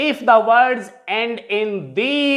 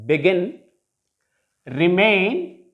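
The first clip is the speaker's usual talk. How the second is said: "Begin, remain" with stressed GIN and MAIN; spaced model words, beGIN, reMAIN; stress on last syllable; 3 semitones lower, slower than usual. Shown as a demonstration. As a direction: lean on the end of "Begin" and "remain". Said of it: "stress is on the last syllable".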